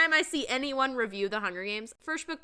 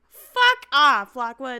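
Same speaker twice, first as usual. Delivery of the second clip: loud shouted brush-off; a reader yelling at the hero, loud and fed up; mock shout; 11 dB louder, much slower than usual. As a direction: bark it out in exasperation. Mock outburst at the character.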